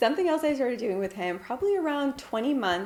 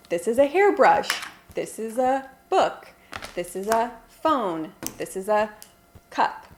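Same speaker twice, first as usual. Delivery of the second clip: put-on pointing things out to a toddler. Shown as a demonstration. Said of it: "the focus is kind of pointing things out".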